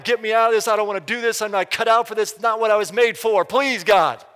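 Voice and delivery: reliving a desperate complaint to God; half-shouted plea to be let off; retold yelling at God. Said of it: "I'm yelling at God".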